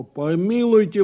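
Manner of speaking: forceful cry of objection; indignant exclamation. A narrator's reading. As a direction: exclaim it as if outraged. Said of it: "воскликнул дурак".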